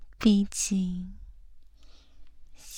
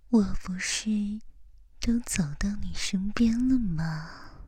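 right in your ear. Acted. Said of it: "贴着你的耳朵说话吧". (贴耳低语)

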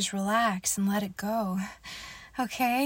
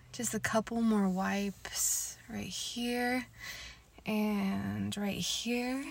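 whispering; 4 dB quieter than usual. Acted. Whispered intimate roleplay.

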